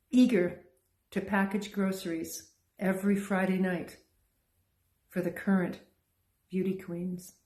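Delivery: measured, deliberate poetry recital with pauses between phrases; poem reading. Acted. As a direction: read it as a story-poem, lingering on line endings. Reads own poem aloud.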